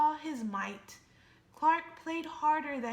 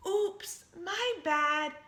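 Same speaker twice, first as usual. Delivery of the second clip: sheepish squid; 5 semitones higher, 7 dB louder, slower than usual. Acted. Squid apologizes.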